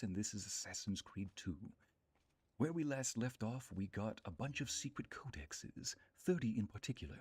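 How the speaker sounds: lightly put-on storyteller recap; narrator voice. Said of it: "do this in my narrator voice".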